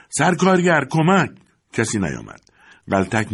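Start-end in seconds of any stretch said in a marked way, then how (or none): 0.1-1.3 high, loud desperate cry for help; shout for help. A narrator's reading. Worker shouting to absent foreman for help on the line. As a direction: yell for the foreman at full strength. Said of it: "با تمام قدرت فریاد زد".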